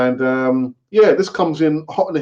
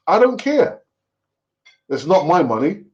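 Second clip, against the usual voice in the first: dismissive; 2 semitones higher than usual. Real, not acted. Dismissing the price as not his money.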